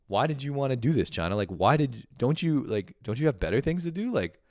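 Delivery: put-on a kid scolding China for making his toys; indignant kid. Grown man voicing a kid who scolds China, high and indignant. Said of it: "Like, not like".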